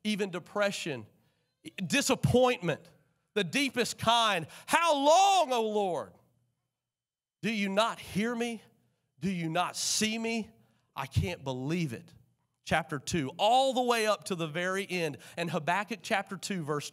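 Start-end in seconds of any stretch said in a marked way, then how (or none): 4.6-12.1 anguished cry. Acted. Voicing Habakkuk's anguished complaint.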